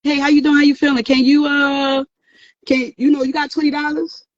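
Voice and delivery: a hint of a family member fishing for money; mock sweet-talking relative. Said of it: "that's how they deal with you".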